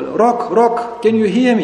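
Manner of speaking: half-hearted shout to someone who may be listening; mild acted shout. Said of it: "He shouted to the rock".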